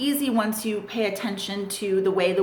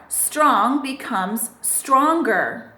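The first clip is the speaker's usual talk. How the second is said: slow model phrase; much slower than usual. Shown as a demonstration. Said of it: "We just need to add E R".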